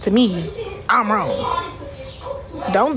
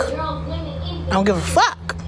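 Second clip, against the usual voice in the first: high, slow, softer mocking drawl; sing-song dismissal; 4 semitones higher, 4 dB quieter, much slower than usual. Real, not acted. Streamer brushes off haters in a slow high sing-song. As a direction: draw it out like you truly don't care.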